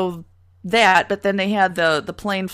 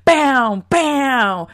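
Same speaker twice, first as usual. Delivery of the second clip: mock concert ending; 7 semitones higher, 5 dB louder, much slower than usual. Mocking endless concert bows.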